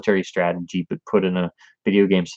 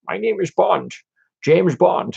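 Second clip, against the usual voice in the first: thrown-away, tossed-off line reading; flat Bond line; 11 semitones higher, slower than usual. Retold or imitated. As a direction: say it lazily, throwaway. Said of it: "the line reading is always seems so bad".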